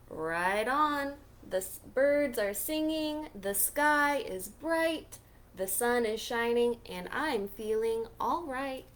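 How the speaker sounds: happy refrain. Acted. Pete seeing the world anew, lightly voiced joy. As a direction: bounce it out with joy.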